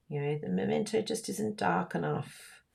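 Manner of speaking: ordinary talk, nothing marked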